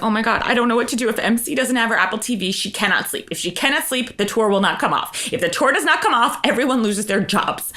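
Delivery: fast panicked rambling; panicked assistant. Retold or imitated. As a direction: babble in a frantic rush. Assistant crying hysterically.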